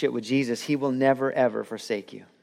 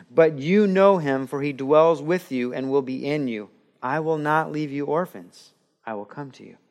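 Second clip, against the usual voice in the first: scripture reading. Acted. Reads scripture passage.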